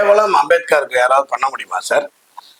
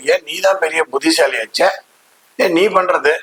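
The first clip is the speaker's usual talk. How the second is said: lightly voiced sneering taunt; a hint of Nehru's contemptuous teasing; mocking sarcasm. Retelling Nehru taunting Ambedkar, mild mock sarcasm. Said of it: "எக்கத்தலமா கிண்டலா கேட்டார்".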